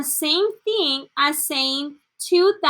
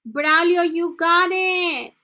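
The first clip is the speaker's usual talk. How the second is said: tearful praise. Real, not acted. Teacher praises Braulio, choked up with tearful joy. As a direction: praise through happy tears. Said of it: "I'm going to cry of emoción".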